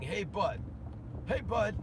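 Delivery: calling out to get a kid's attention, mimicking the lifeguard; imitating a yell. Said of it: "yelling at him".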